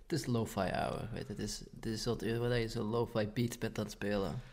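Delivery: drowsy, slurring half-asleep; sleepy voice near midnight; sleep deprived. Real, not acted. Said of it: "zo slaapdronken aan het worden".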